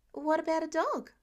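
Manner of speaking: put-on teen asking mom for a dog, hopeful. A narrator's reading. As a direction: float it gently, hoping for a yes. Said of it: "Peter asks hopefully".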